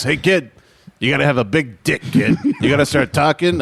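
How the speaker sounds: lightly voiced crusty elder advising a kid; Alan Arkin. Grandfather urging silent kid to talk, light impression. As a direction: give blunt advice in a put-on actor's voice. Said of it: "deep voice like this".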